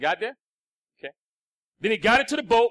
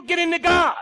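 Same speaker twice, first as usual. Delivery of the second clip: emphatic shout; 4 semitones higher than usual. Acted. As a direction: shout it out to the congregation. Preacher exhorting, repeated call.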